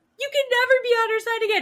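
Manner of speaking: very high, loud, tearful crying scream. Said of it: "he's crying and screaming".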